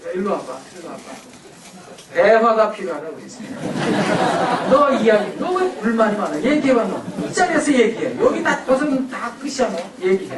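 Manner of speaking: mock stern parent ordering the kid to talk; lightly scolding, demanding he speak up; bossy parent summons. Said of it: "이건 대화가 아닙니다". (아이를 불러 다그치는 부모, 가볍게 흉내 낸 호통)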